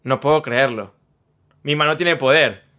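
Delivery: low-pitched imitation of an amazed mother; awestruck mom. Mom marvelling at having hit a star, low mock awe. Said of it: "mi mamá ve el pasado y dice".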